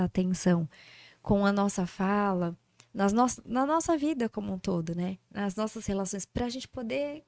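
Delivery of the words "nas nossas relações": usual speaking voice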